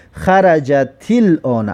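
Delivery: "خرجت الان" slowly joined as xa-ra-ja-til-ona; linked with kasra. Shown as a demonstration. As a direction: carry the t of "خرجت" into "الان" with a short i, syllable by syllable. («خرجت الان» پیوسته و آهسته، با کسرهٔ تا)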